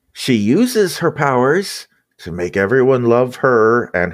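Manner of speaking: lightly voiced ethereal spirit; a hint of an otherworldly voice in the head; echoing ethereal energy being. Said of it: "the spirit's voice says".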